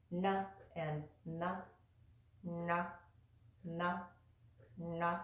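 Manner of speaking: na dental then na retroflex, tongue moved back; contrasting na sounds. Shown as a demonstration. Teacher contrasting two n sounds for students. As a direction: set the two na sounds side by side. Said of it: "You hear the difference between".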